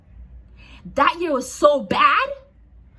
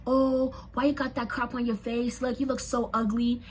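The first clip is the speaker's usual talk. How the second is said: mock bully taunt; 4 dB quieter than usual. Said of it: "they used to be like".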